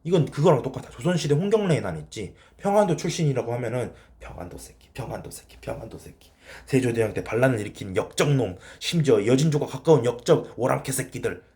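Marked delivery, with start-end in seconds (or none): 4.2-6.3 mock slur. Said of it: "이렇게 욕 처먹은 거 알아".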